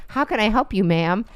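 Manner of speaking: polite call-center agent; chirpy phone rep; customer service voice. Retold or imitated. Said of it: "customer representative and they're always like".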